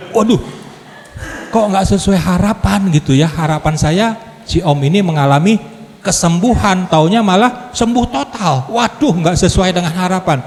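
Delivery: high, exasperated mock dismay; hammed-up shock at his own dashed hopes; half-joking dismay. Disappointed, mocking his own hopes.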